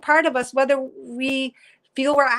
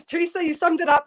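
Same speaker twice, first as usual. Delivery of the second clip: speaking through a laugh, pitched up; 6 semitones higher than usual. Real, not acted. Host laughing as she thanks a viewer. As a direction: let the laugh carry the words. Laughing while moved by comment.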